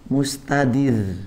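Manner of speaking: Mustadir spelled out very slowly; slow term drill. Shown as a demonstration. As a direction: say Mustadir syllable by syllable. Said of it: "ini namanya mustadir ya". (Mustadir diucapkan sangat pelan)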